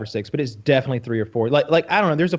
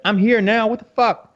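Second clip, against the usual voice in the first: indignant; 8 semitones higher, 3 dB louder than usual. Retold or imitated. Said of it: "he's just like".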